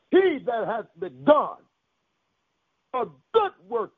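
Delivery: emphatic preacher cadence, phrases set apart by pauses; preaching. Real, not acted. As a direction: declare it to the congregation.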